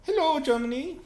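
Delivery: very high, loud character voice; loud greeting. Acted. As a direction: sing out a loud hello. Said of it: "He said it loudly as usual".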